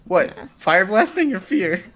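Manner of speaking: ordinary talk, nothing marked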